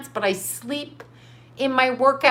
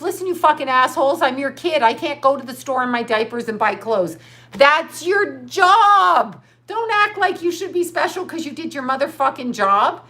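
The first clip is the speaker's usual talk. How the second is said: angry outburst; 3 semitones higher than usual. Real, not acted. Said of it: "I just had an outburst".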